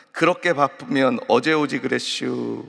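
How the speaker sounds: lightly drawled Chungcheong banner line; Chungcheong dialect. Retold or imitated. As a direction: read the sign with a hint of Chungcheong. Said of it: "충청도 경찰서에서 만든".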